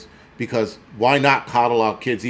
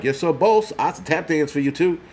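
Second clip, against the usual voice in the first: mock servile; 4 semitones higher than usual. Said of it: "People like".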